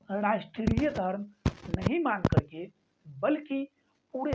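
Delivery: slow dictation in separated phrases. Real, not acted. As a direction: dictate slowly, phrase by phrase, for note-taking. Teacher dictating a definition to write.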